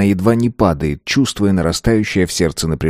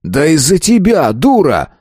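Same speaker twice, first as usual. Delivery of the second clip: angry retort; 7 semitones higher than usual. A narrator's reading. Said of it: "взревел он".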